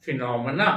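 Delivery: फिनोमेना said fee-NOM-in-a, stress on the second syllable; correct pronunciation. Shown as a demonstration. Teacher gives students the correct pronunciation, clearly. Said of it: "लेकिन इसकी pronunciation है".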